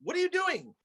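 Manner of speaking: high, startled wait what; mock surprise. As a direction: react high with startled disbelief. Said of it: "I'm just like".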